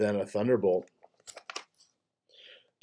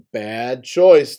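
calling out; 7 dB louder than usual. Acted. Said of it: "they called".

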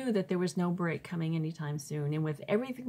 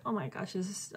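an unvoiced, breathy whisper of overwhelm; whispered despair; 5 dB quieter than usual. Alone in her prayer closet, a despairing whisper. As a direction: hush it out like a private plea.

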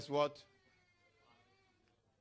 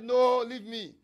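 loud refusal; 5 semitones higher, 10 dB louder, slower than usual. Acted. Blind man refusing to stop.

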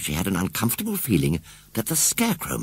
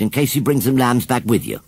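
fussy farmer's wife; 4 semitones higher, 4 dB louder than usual. Acted.

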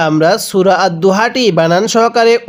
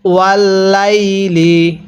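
ওয়াল্লাইলি drawn out slowly; slow recitation; much slower than usual. Shown as a demonstration. Teacher models the word for students, slowly. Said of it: "পড়ুন".

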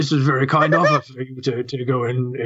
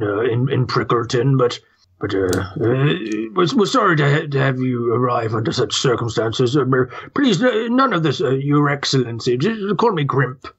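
put-on grumpy old toad. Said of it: "I'm an old toad, speaking like this hurts my voice".

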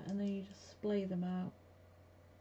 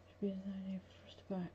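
quick unvoiced aside; whisper; 10 dB quieter, faster than usual. Real, not acted. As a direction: whisper it fast to yourself.

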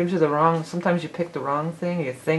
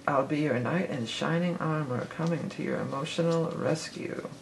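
softer, quoted as a song line; softly quoted lyric; 6 dB quieter than usual. Shown as a demonstration. Reader quoting a band's lyric to viewers, softly. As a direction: murmur the lyric like remembering a song. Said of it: "That song was just in a movie"

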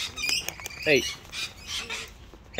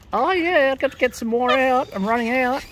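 excited bird calling; 7 semitones higher, 7 dB louder than usual. Real, not acted.

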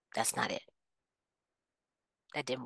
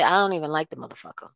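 blunt confession; much faster than usual. Retold or imitated. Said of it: "you say".

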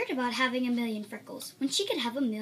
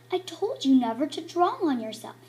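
mom mad; 6 dB louder than usual. Acted.

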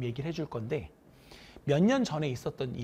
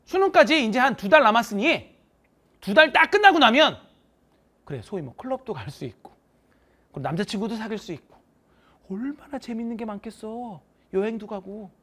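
excited encouragement; 3 semitones higher, 6 dB louder than usual. Retold or imitated. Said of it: "나름 열심히 했대".

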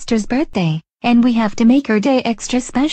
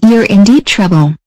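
angry scolding; 8 dB louder than usual. Acted. Mom scolding runaway son.

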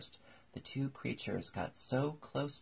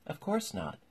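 much higher, pompous creature; mock turtle voice; 11 semitones higher, 4 dB louder than usual. A narrator's reading. Mock Turtle flatly answers Alice.

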